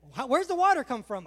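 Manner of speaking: put-on child full of questions; inquisitive kid. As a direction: press on like a curious child. Kid asking again.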